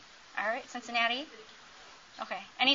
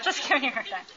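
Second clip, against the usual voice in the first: laughing; 3 dB quieter, faster than usual. Real, not acted. Teasing an audience member, laughing.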